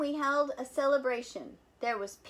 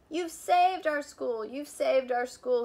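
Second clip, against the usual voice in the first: louder, slow delighted roar; jubilant roar; 2 semitones higher, 6 dB louder than usual. Acted. Principal roaring with joy to the pupils. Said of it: "he jubilantly roared".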